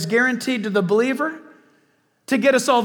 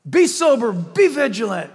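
commanding Peter. Retold or imitated. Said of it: "right in midstream".

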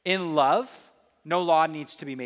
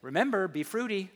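lightly teasing voice in your head; a playful, nagging little reminder; mildly hammed-up pesky reminder; obnoxious little voice; 3 semitones higher than usual. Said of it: "my obnoxious little voice in your head".

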